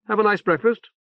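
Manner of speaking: lightly voiced stern woman officer; brisk, severe but sympathetic. Saber's voice.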